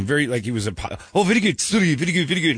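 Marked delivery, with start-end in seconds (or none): 1.1-2.5 high-pitched mock Asian accent. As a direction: imitate an eager Asian owner's accent. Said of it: "with the accent and everything".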